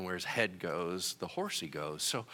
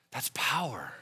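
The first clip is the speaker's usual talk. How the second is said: whisper. Real, not acted.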